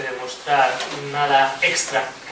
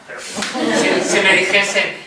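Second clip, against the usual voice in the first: laughing; 4 semitones higher, 4 dB louder than usual. Real, not acted. Jokes about being reborn gay.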